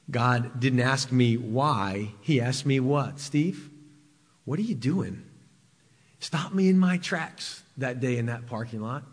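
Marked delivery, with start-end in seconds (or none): 3.2-5.2 softer, hushed question to Steve; quiet voice of God. Retold or imitated. God quietly stops Steve in the parking lot, hushed. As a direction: lay it down gently, almost to yourself. God's question, first telling.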